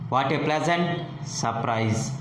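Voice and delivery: up through "What a pleasant", down on "surprise"; rise then fall. Shown as a demonstration. Teacher showing pitch falls at the end, rise then fall. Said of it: "and falls at the end".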